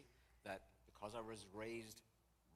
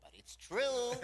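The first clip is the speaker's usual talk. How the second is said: teasing insistence; 14 dB louder, slower than usual. Retold or imitated. Friend insists while all laugh.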